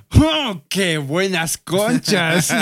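slow, drawn-out mock admiration; hammed-up ogling, stretched out; mock catcall. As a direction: play an exaggerated street admirer. Acting out an imagined TikTok catcall.

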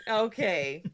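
high, slow, cooing dog voice. Real, not acted. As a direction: coo at the dog slowly. Talking to the dog.

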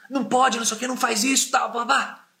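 stern owner correcting his dog; firm scolding of the dog. Retold or imitated. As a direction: scold the dog firmly but calmly. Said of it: "Fui bem incisivo com ele ali".

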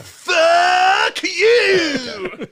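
loud, high quoted yell; high shouted movie quote; mock shout. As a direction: belt it out like a cornered hero. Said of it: "he goes".

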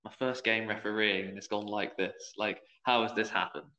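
low, soft worried murmur to himself; a hint of first-game dread; panicked inner thought. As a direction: mutter it like silent panic. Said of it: "And I'm like".

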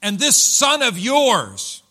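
loud, high, drawn-out disgust; contemptuous older brother. Acted. Older brother speaks of his brother to their father, scornful. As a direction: stretch each word in accusation. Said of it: "that's the way he said it".

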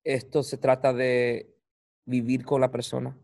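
Spanish with an American accent; English speaker's halting Spanish. Real, not acted. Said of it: "Perdón, mi español".

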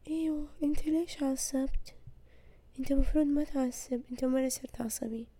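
soft, icy, fading to a whisper; coolly provoke him, barely above a breath; cold calm voice. Retold or imitated. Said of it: "وهو يكون مرة بارد". (بصوت بارد هادئ يتحول إلى همس)

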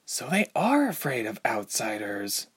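soft unvoiced whisper; murmuring. A narrator's reading. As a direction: whisper it to yourself. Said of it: "Ilse murmured aloud".

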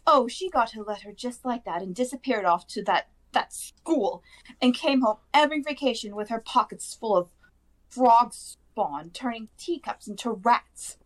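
high-pitched, indignant aunt ranting; shrieking rant. A narrator's reading. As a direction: pour out years of resentment in a high voice. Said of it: "then went ranting on".

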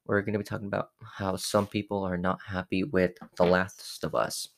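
lisping with missing teeth; toothless, slightly lisped speech; speaking without teeth. Real, not acted. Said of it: "I still don't have teeth".

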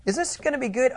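secretive whisper, asking hopefully; whispered question. Acted. Spies anxiously ask the priest.

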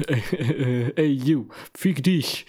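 put-on high, slow American-accented German; imitating an American saying fick dich. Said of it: "typisch amerikanischen Akzent".

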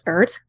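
Ert, ending on a hard t instead of th; "Ert" pronounced with a t where Earth has th. Shown as a demonstration. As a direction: say "Ert" with a crisp final t, no th. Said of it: "it's pronounced Ert".

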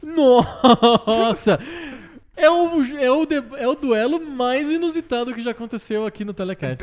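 high, loud, laughing surprise; excited outburst. Real, not acted. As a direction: burst out in amused astonishment. Surprised by opponent's game pick.

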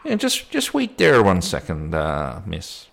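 lightly voiced policeman stalling a visitor; put-on policeman voice; policeman role. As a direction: hold her off, hesitantly polite. Policeman asks her to wait.

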